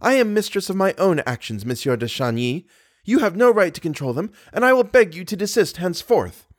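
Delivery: high, emphatic proud retort; haughty. A narrator's reading. Girl tells suitor he has no rights, haughtily. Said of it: "said the young girl haughtily".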